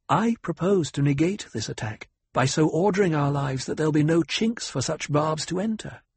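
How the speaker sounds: lightly voiced commanding noblewoman; cool noble lady.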